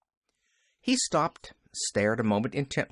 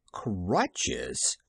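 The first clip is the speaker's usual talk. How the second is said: whispered echo; 5 semitones lower than usual. Acted.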